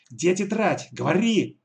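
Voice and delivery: shouting demand. Acted. Alisa shouting at the girl to hand over the notebook. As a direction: bark the question at the girl. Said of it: "закричала на девочку Алиса".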